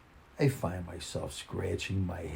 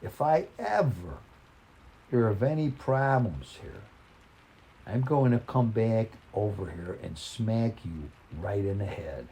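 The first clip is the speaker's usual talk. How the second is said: mock stern threat; 4 semitones higher than usual. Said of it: "in no short order".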